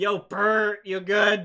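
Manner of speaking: very loud, high, drawn-out hollering yell. Voicing a boulder calling out to another: yelling. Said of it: "just yells out".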